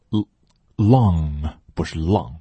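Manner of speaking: 英语long的发音; English long l. Shown as a demonstration. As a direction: clear English long, not Chinese lang. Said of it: "不是汉语里的浪啊".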